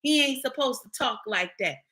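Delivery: quiet, prissy mock complaint; mocking scold. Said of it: "Y'all always say".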